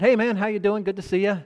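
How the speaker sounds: retold cheery hello to a business contact; cheery greeting. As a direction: greet him like an old buddy.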